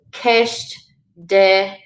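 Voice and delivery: "kesht, de" with the eh of "tell"; short eh sound. Shown as a demonstration. Teacher showing E without fada, short eh. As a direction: say "kesht" and "de" apart, short open eh. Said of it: "so S sound".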